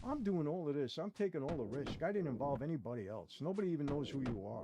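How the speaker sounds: reliving an angry protest at the table; retold anger. Confronting the bosses over being questioned, mildly heated. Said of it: "I started getting angry".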